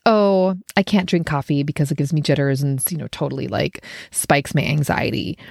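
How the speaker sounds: grudging, put-upon excuse; resentful can't. Shown as a demonstration. Turning down a friend's coffee, annoyed. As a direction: sound deprived and annoyed. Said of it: "you're mad about it or just annoyed".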